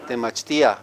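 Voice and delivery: "Temachtia" as te-mach-TEE-a; "Temachtia" with I and A in two syllables; stressed I. Shown as a demonstration. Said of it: "you separate the I from the A".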